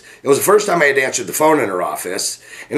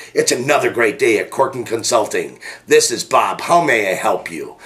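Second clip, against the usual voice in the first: friendly phone greeting with a smile in the voice; smile through the phone. Shown as a demonstration. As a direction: let them hear the smile. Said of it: "I want you to feel the smile coming through the phone".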